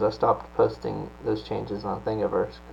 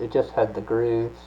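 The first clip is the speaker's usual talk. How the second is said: talking around a paintbrush; paintbrush in mouth. Real, not acted. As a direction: speak with a brush between lips. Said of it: "I put a paintbrush in my mouth".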